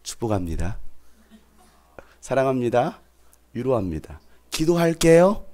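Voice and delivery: church talk imitation. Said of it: "이런 거예요".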